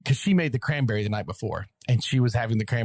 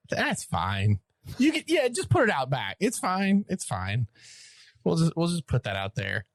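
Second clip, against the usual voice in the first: mock nonchalance; 5 semitones higher than usual. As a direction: imitate an offhand brush-off, pitch hopping. Imagined winner shrugging off free beer.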